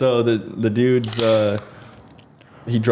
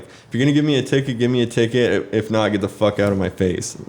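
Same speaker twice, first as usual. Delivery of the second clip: retold angry demand. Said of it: "he was so mad".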